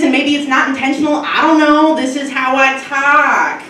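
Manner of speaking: a breezy, careless young guy, voiced lightly; assistant impression. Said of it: "he kinda talks like this".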